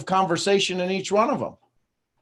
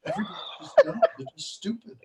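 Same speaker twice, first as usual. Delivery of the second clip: much higher, put-on voice; mocking Brittany; 6 dB quieter, faster than usual. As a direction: mimic her scornful complaint. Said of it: "Brittany's like".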